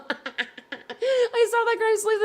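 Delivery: high, slow words through laughter; laughing. Real, not acted. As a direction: giggle through the line. Spots a tweet, laughing.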